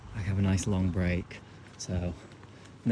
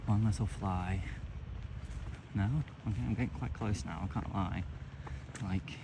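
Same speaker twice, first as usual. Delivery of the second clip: hushed; 6 dB quieter than usual. Real, not acted. Creeping up on a heron.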